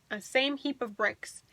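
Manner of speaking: usual speaking voice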